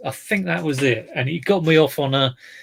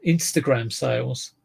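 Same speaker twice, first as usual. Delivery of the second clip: put-on Welsh accent. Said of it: "That was a Welsh accent".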